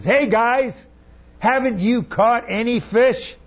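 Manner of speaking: calling out from shore. Acted. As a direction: hail the boat from the beach. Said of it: "he now speaks to them and he says".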